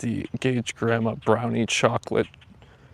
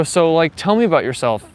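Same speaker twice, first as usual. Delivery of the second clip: mock interviewer; 4 semitones higher, 4 dB louder than usual. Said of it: "they go".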